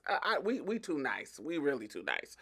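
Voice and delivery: quiet rueful grumble; rueful mutter. Real, not acted. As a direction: mutter it to yourself, shaking your head.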